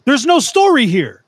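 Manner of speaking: indignant, high-pitched telling-off; mock outrage. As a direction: rant at a time-waster in comic indignation. Berating a poster over missing story.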